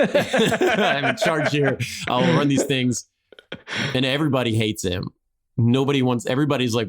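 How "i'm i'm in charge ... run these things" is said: bad French accent. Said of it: "I can't do the accent".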